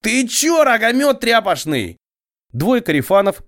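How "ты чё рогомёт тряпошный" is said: much higher, voice breaking yell; cracking yell. A narrator's reading. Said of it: "вопя срывающимся голосом". (вопя срывающимся голосом)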